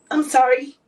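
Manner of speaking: choked-up sorry as the crying starts; tearful apology. Real, not acted. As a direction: apologise through real tears. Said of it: "I'm sorry that I'm getting so emotional".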